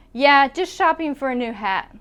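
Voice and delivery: "shopping" with the G barely released; softened final G. Shown as a demonstration. Teacher shows an unclear G, softened "shopping". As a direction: let the end of "shopping" melt into "for". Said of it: "not going to say that G very clearly".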